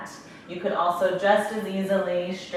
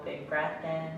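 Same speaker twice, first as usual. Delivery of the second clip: calm meditation guide, long pauses between phrases; guided meditation; 7 dB quieter than usual. Real, not acted. Yoga instructor guiding breath and closed eyes, calm meditation voice. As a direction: ease them gently into stillness, leaving space to breathe.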